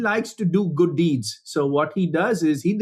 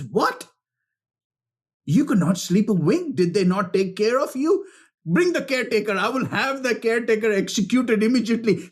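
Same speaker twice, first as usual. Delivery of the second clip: higher, alarmed royal outrage; shocked outrage; 4 semitones higher than usual. Retold or imitated. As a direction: demand the caretaker at once. Shocked king orders execution.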